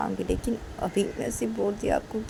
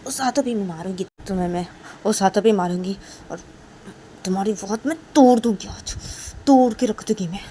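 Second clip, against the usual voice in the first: stern scolding threat, rising louder; teacher scolding Kajal before hitting her hand, angry; 5 dB louder than usual. Acted. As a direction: threaten the student like a furious teacher. Teacher scolding student in story.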